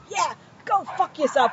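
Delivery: imitated hostility. Imitating a stranger's parting insult in New York, mildly hostile.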